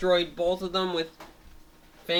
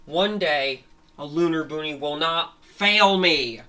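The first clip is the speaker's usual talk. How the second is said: villain's vow; 6 dB louder than usual. Acted. Beaten villain vows success.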